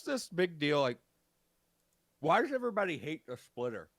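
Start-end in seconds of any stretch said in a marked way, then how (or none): 2.2-3.9 talking around ice cubes; ice in mouth. Real, not acted. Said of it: "Sorry, I got ice in my mouth".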